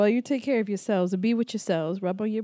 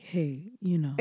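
low, soft sweet-talk; gentle, quiet mock come-on; nicely; 5 semitones lower, 8 dB quieter than usual. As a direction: imitate him saying it so nicely. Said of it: "would say it so nicely".

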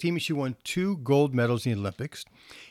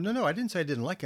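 quick, soft and higher reassurance; reassuring; 5 semitones higher, 4 dB quieter, faster than usual. Retold or imitated. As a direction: gently talk them down, quickly. Teacher reassures worried student.

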